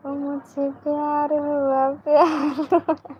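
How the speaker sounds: slow, lightly romantic film line with a lift on प्यार; filmy dialogue on request. Shown as a demonstration. Viewers ask her to repeat the dialogue, so she gives a slow playful filmy take. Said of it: "एक बार फिर से dialogue बोलो ना".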